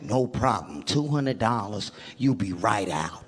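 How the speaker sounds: lightly voiced low bum; subdued jailhouse bum. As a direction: offer it low and quiet, a hint of a bum. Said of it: "This bum is like".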